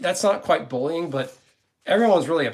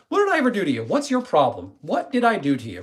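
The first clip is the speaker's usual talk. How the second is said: mock challenge; 4 semitones higher than usual. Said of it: "like, "Hey".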